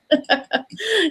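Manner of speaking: bright high laugh after the proverb; a quick real laugh at the joke. Real, not acted. Host laughing at the quoted proverb, real laugh.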